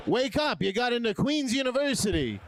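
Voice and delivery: high, loud mock announcement; waking the sleeping man with loud mock good news; mock wake-up call. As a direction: shout it like cheery good news. Voicing official waking sleeping man.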